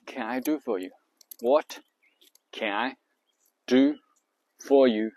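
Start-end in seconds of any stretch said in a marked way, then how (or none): 1.4-5.1 stress-group demo. Shown as a demonstration. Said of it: "按照重音来".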